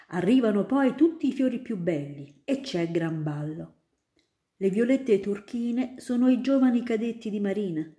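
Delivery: put-on a grown-up spinning tales for a child; student eagerly convincing little Ida; storytelling student. Student describes ball.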